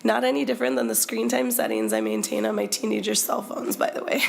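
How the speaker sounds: hoarse, croaky voice from a cold; frog voice. Real, not acted. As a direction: speak through a croaky throat. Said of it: "I apologize for my frog voice today".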